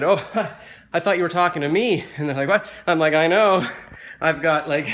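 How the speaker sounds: animated retelling of a self-mocking elevator gag; excited retold joke. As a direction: sell the punchline like a stand-up. Retelling his own elevator joke.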